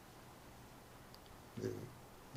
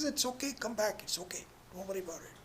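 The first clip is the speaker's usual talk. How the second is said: put-on high, coaxing girl's voice; calm the little one down gently; soothing older sister; 8 semitones higher, much faster than usual. Nine-year-old coaxes her sister back, high and soothing.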